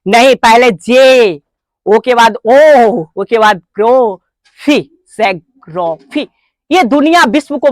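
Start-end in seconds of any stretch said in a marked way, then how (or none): 0.7-6.3 slow build of ज्योग्राफी: जे, long ओ, ग्रोफी; broken into syllables. Shown as a demonstration. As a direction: sound out ज्योग्राफी piece by piece, drawing each out. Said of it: "direct पढ़ लेते हैं ज्योग्राफी, नहीं, पहले". (ज्योग्राफी को खंड-खंड करके, खींचकर)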